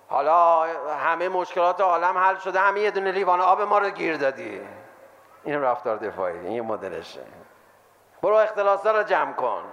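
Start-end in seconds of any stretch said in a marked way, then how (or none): 0.1-4.6 louder, indignant comeback, hammed up; mocking defensive retort. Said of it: "دوست دارم رفتار دفاعی رو مسخره کنم". 8.2-9.6 louder, dismissive snap-back; mocking defensive retort. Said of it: "رفتار دفاعی رو مسخره کنم".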